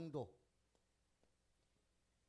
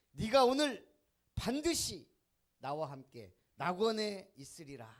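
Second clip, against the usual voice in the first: solemn promise; 3 semitones lower, 6 dB louder than usual. Retold or imitated. Jesus answers the thief.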